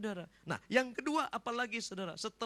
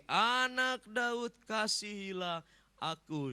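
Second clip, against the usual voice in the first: long, drawn-out loud cry; insistent beggar's call, stretched slow; Bartimius crying louder; 3 semitones higher, 4 dB louder, much slower than usual. Acted. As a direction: draw out the plea, starting loud. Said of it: "Semakin keras ia berseru".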